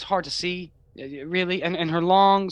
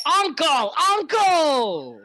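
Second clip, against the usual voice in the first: high, louder giving in; playful surrender; 9 semitones higher, 4 dB louder, much slower than usual. Acted. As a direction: cry uncle while pinned. Giving up in play fight.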